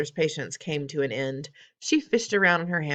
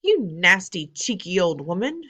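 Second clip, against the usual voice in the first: louder furious outburst; angry shout; 3 semitones higher, 6 dB louder than usual. Acted. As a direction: yell at the old woman. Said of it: "shouted Mister Jenkins".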